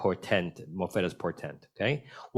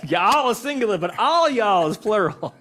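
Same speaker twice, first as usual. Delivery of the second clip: laughing; 11 semitones higher, 6 dB louder than usual. Real, not acted. Laughing over the joke.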